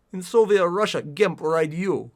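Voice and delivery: half-hearted Russian accent, slowing down; badly faked Russian accent. Shown as a demonstration. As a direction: attempt a clumsy Russian accent. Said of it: "can't do a Russian accent".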